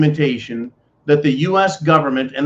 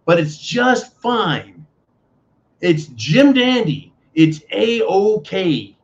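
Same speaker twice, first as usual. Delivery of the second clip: slow, dripping sarcasm; sarcastic; 3 semitones higher, much slower than usual. Real, not acted. Host mocks double standard, slow sarcastic drawl. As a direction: drag out each fake approval mockingly. Sarcastic praise of China invading.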